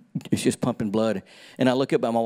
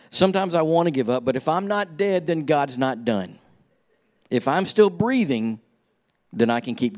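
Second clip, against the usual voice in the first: preaching. Acted. Preacher building to a climax.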